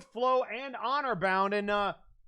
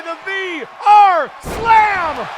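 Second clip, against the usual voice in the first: drawn-out, louder big slam call; shouted move call; 7 semitones higher, 14 dB louder, much slower than usual. Acted.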